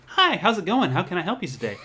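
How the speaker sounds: high-pitched, upbeat customer-service greeting; work radio voice. Shown as a demonstration. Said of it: "I kind of do a radio voice".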